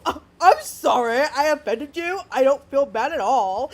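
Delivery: lightly put-on California surfer bro; hint of a mocking surfer bro. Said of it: "it sounded like a California surfer bro".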